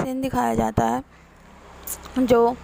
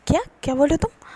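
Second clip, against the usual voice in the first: shocked; 4 semitones higher, much faster than usual. Retold or imitated. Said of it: "shock लगता है".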